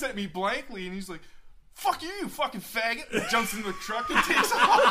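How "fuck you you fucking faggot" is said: mock-furious parting shot, much higher pitch; retold angry insult. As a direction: imitate an outraged heckler in a high voice.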